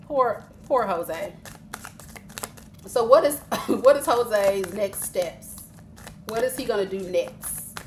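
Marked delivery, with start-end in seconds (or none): 0.1-1.3 mock pity. 3.7-5.6 laughing. Real, not acted. Laughing at Jose.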